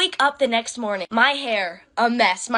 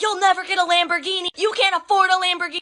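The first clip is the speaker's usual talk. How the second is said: much higher imitating an angry drunk man; mock drunk scream; 8 semitones higher than usual. Drunk man yelling in a teen's face, mock scream. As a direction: ham up his ranting yell. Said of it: "he starts screaming at me".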